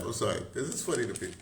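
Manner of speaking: ordinary delivery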